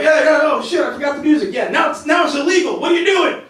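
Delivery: a touch of panic over the music; panicked driver. Retold or imitated. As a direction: act out a flustered driver.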